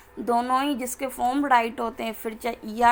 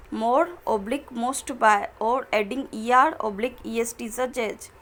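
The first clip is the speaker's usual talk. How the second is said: slow, careful reading of the English rule; slow textbook reading; much slower than usual. Acted. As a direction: read each word out slowly for students. Reads the exceptions rule aloud. (धीमे-धीमे किताब से पढ़ना)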